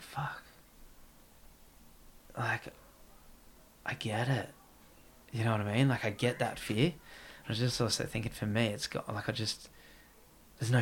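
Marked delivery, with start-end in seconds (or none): 0.0-4.5 very soft muttered curse; hushed realisation. Retold or imitated. Recalling sitting there realising her fear, hushed. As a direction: swear under your breath, to yourself. Retelling his silent realisation.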